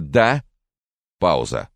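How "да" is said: guarded, raised questioning answer; wary. A narrator's reading. Francis answers the phone to an unknown caller, warily. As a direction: pick up warily, pitched high and louder. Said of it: "Настороженное".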